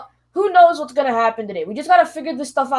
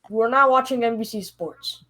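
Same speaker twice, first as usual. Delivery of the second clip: ordinary talk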